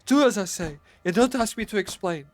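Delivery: high, loud, urgent pleading; wild consternation. Acted. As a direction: beg him to flee, frantic. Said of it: "in a pitch of wilder consternation".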